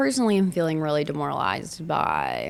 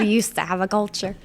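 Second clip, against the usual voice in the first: mock conservative lament. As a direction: play a grumbling patriot.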